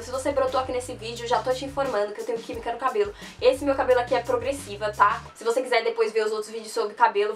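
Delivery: sick, hoarse voice with a sore throat. Real, not acted. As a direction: talk through a scratchy, sore throat. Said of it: "eu tô com a voz rouca e a minha voz vai tá rouca durante o vídeo inteiro".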